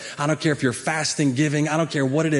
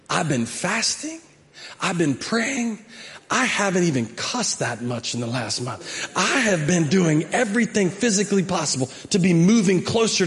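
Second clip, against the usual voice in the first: mock whiny prayer. Shown as a demonstration. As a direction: pray like you feel cheated by the Lord. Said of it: "we pray like this".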